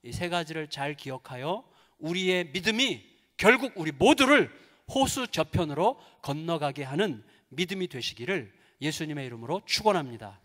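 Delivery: ordinary delivery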